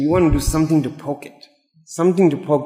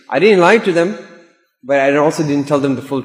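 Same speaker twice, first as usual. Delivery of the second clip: mock self-justifying; 4 dB louder than usual. Spouse excusing their hidden truth.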